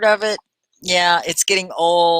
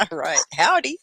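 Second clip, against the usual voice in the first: laughing howdy. Pretend. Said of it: "I'm from Texas".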